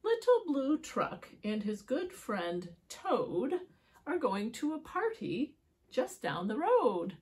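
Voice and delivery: lively, singsong picture-book narration; story reading to children. A narrator's reading. Reading Little Blue Truck to children, lively storytelling. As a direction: read it out clearly for little listeners.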